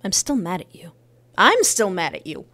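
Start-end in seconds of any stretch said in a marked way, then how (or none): 1.4-2.5 louder, insistent repeat; louder mad. Acted. Telling her ex she's still angry, louder. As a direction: push it harder the second time. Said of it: "I'm mad at you".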